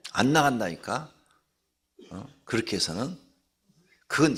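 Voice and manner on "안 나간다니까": usual speaking voice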